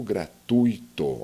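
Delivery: gratuito said slowly as gra-TUI-to; teacher's careful gra-TUI-to, u and i glided together; ui as diphthong. Shown as a demonstration. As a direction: draw out gratuito, keeping "ui" in one stressed syllable. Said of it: "o ditongo é um encontro vocálico".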